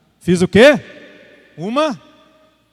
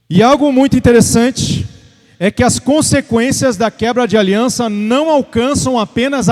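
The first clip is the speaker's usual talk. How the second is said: emphatic, raised preacher's delivery; preaching; 4 semitones higher, 4 dB louder than usual. Real, not acted. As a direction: exhort the congregation with driving repetition. Preaches warning to congregation. (pregação enfática, exortando a igreja)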